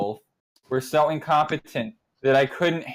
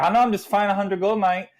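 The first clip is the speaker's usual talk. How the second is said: fast, higher mock Australian; Australian kid; 8 semitones higher, faster than usual. Kid brushing off the town's questions in quick mock Australian. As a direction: rattle it off like a shrugging Aussie kid. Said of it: "they had this Australian kid".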